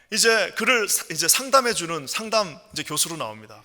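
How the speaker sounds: ordinary delivery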